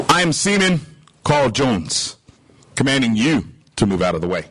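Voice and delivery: low, unruffled reply to a command; unimpressed seaman. Acted. Humble seaman answering the grand captain, calmly commanding. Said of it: "The signal comes back".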